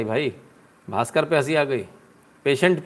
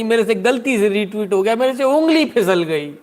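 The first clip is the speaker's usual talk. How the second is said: mock crying apology; 6 semitones higher, 4 dB louder than usual. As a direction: whimper it out like a caught child, hammed-up. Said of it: "वो कह रही".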